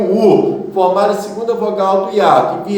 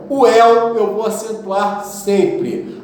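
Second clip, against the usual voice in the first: slow emphatic rule; 3 semitones higher, slower than usual. Shown as a demonstration. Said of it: "E el".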